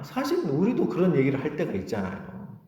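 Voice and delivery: ordinary talk, nothing marked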